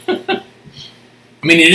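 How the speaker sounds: talking while chewing apple; biting an apple. Real, not acted. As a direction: mouth full of apple. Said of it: "Sorry, I'm eating an apple".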